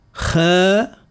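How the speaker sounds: خاء with a light, fronted a, like khee-a; thin the vowel of خاء toward khae; light, unemphatic kha in خاء; thinned kha. Shown as a demonstration. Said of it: "إذا رققنا صوته".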